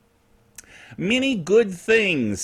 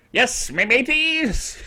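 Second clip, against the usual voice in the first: pirate voice; 3 semitones higher, slower than usual. Shown as a demonstration. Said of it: "Talk Like a Pirate Day".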